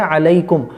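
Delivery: "अलैकुम" separately and clearly; correct second word. Shown as a demonstration. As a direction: open the "लै" in "अलैकुम". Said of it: "दूसरा है". ("अलैकुम" अलग शब्द, साफ़)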